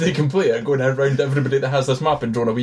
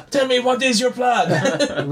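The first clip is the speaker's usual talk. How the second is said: slow, higher-pitched mock questioning; lightly put-on high voice, drawn out; imitated film character; 11 semitones higher, slower than usual. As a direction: imitate her asking, slowly and higher. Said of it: "She was like".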